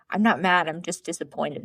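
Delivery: mock calm disappointment; disappointed. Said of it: "the typical".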